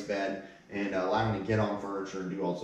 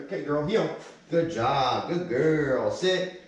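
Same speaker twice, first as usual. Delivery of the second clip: upbeat dog praise; 4 semitones higher, 3 dB louder, slower than usual. Real, not acted. Trainer working dog, praising.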